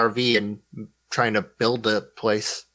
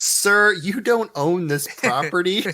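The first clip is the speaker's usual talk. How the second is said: put-on Australian accent; 5 semitones higher, slower than usual. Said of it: "That was a great Australian accent".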